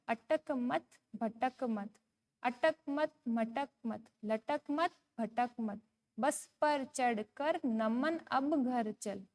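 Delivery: slow, measured sing-song recital; poem recitation. Shown as a demonstration. Teacher reading a poem to young pupils, slow sing-song. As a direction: read each word out slowly for children to follow.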